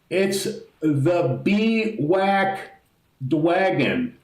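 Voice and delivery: put-on high, slow cooing baby talk; mock baby voice for a tiny dragon. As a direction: read the name like cooing to a toddler. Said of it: "like he would talk to a child".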